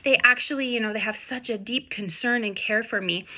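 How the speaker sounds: mock gushing delight; gushing owner. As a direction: imitate a charmed dog owner. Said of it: "a lot of people are like".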